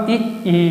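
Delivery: ई, ई said softly and stretched with tongue toward the palate; soft palatal demo. Shown as a demonstration. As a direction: breathe out a soft drawn ई twice. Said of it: "तालु रहेगा हमारा ई". (धीमी आवाज़ में खिंचा हुआ ई)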